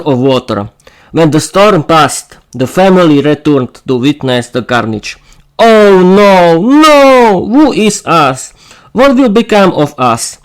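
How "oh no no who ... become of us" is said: high wailing lament; mock-sobbing wail; acted sobbing. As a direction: cry out over the ruined home. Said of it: "sobbed Zofia".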